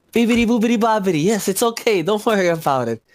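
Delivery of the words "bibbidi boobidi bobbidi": high, quick singsong nonsense; singsong magic words. Acted. Casting a playful spell over the frightened goat. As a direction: chant it like a fairy spell.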